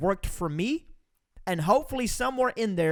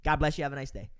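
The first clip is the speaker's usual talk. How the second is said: dismissive brush-off; 5 semitones lower, faster than usual. Shown as a demonstration. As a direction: say it sweetly but mean go away. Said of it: "it just means get lost".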